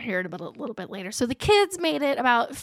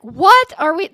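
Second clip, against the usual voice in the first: higher, louder mock outburst; indignant protest; 4 semitones higher, 8 dB louder, slower than usual. Teen protesting the surprise boat trip, mock indignant. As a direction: imitate a teen caught off guard.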